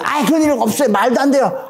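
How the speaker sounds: indignant protest. Retold or imitated. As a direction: act out a disciple arguing back at his teacher. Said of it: "제자가 스승한테 막 따지고 든". (따지고 드는 말투)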